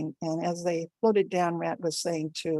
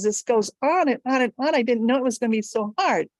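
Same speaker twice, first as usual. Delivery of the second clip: raised, swooping complaint; exasperated emperor; 5 semitones higher, 4 dB louder than usual. A narrator's reading. Emperor complaining the contest never ends, exasperated. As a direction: lean on each repetition, fed up. Jade Emperor exclaims at tied vote.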